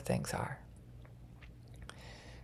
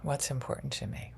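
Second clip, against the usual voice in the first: guided grounding meditation; 2 semitones lower than usual. Acted.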